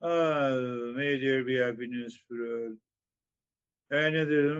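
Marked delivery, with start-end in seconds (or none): 0.0-2.8 casual. Shown as a demonstration. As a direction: rattle the mantra off without care. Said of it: "So, so casually you say".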